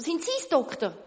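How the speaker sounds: loud, high hopeful call. Acted. Shoemaker asking the doctor, loud call. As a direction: call across the river. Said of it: "ruft der Schuster".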